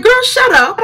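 high-pitched mock officer telling her off; shrill, high retort from a storyteller; retold snap to shut up. Retelling a quarrel with the officer.

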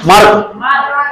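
मार्क stretched very slow with a rising end; drawn-out drill word. Shown as a demonstration. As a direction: drag मार्क out for the class to remember. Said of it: "आज नहीं याद रहेगा नाम". (मार्क को धीरे खींचकर, ऊपर उठाते हुए)

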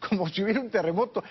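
high, quick, amused; real amusement lifting the voice; laughing speech. Real, not acted. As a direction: rush it out on the tail of a laugh. Still laughing at the clip.

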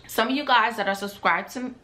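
talking with meat in mouth; mouth full. Real, not acted. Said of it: "can't talk with this meat in my mouth".

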